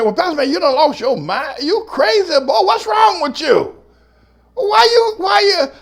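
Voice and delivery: a scandalized congregant asks if he's lost his mind; incredulous church member. Retold or imitated. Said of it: "you say".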